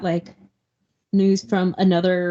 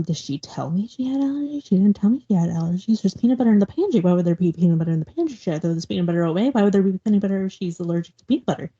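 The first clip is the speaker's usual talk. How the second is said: fast, rattled retelling of panic; mild freak-out; faster than usual. Retold or imitated. Retelling Millie's allergy panic to a friend, mildly freaking out. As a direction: imitate someone flustered, questions tumbling out quickly. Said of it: "like, freaking out".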